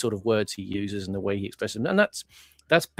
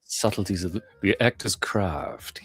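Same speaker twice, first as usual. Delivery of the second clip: slow, hammed-up actorly drawl; playfully pompous; mock grandiose; slower than usual. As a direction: savour each word like a pompous thespian.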